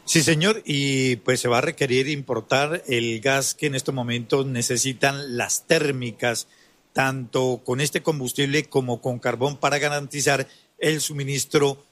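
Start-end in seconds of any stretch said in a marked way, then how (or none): none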